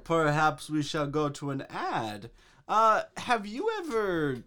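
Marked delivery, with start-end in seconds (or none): 2.7-4.4 salesy ad voice, drawn out; ad announcer. Pretend. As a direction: sell it like a cheesy commercial. Mock ad announcer.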